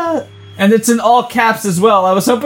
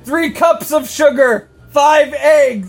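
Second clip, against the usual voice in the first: shouted recipe, a bit higher; all caps reading; 5 semitones higher than usual. Shown as a demonstration. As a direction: yell it like all caps text. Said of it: "so I do have to yell it".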